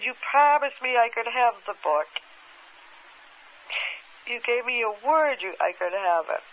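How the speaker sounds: a touch of reliving the anger; furious protest. Retold or imitated. Woman to the leader who took her book, indignant protest. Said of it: "Oh, I'm furious".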